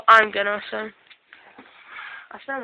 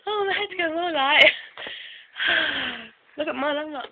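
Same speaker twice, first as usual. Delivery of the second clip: helium voice; 6 semitones higher than usual. Real, not acted.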